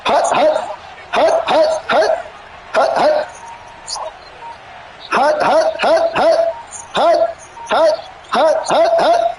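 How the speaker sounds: mock snap count. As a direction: bark the cadence like a quarterback at the line. Mimicking quarterback snap count.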